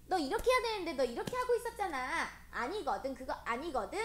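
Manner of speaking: high, hurried mock scolding; petulant acted quarrel; acted bossy temper. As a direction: argue back crossly, insisting on your own way. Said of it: "이렇게 해요".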